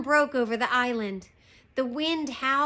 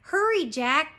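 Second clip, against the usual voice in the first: loud, higher-pitched urging; urgent storybook call; crying out; 5 semitones higher, 5 dB louder than usual. A narrator's reading. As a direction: hurry a companion along. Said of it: "cried Annie".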